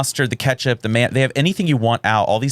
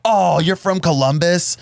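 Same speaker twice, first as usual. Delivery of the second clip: much higher, slow put-on voice; hotel clerk; 9 semitones higher, slower than usual. Hotel clerk greeting guests, high put-on voice. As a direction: chirp like a cheery desk clerk. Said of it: "checking us in was like".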